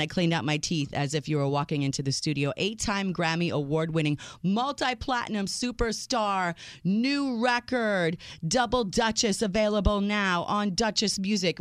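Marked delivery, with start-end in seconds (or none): 2.6-11.6 proper introduction. Real, not acted. Host introducing a singer to the show, grand announcer introduction. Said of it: "give you a proper introduction".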